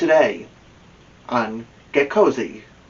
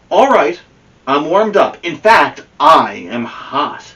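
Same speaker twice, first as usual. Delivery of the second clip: proud and eager; 3 semitones higher, 6 dB louder than usual. Acted. Amelia warmed up.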